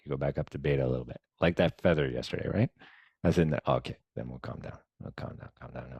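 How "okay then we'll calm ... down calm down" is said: softer and softer, into a whisper; calming self-talk. Shown as a demonstration. Talking herself down during meditation, whispering. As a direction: hush yourself down to a whisper.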